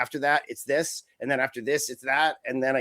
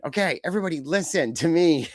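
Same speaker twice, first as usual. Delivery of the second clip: higher, slowing down to lay down the law; mock commander calling everyone to order; bossy ringleader; 4 semitones higher than usual. Dolph Ziggler ordering the big men around, hammed-up bossy.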